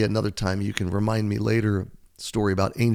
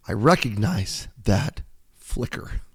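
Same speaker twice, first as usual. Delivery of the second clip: slow, choked-up reading with feeling; emotional; slower than usual. Real, not acted. Pastor moved while reading his own book, emotional. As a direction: voice catching with real emotion. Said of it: "I get emotional reading this story".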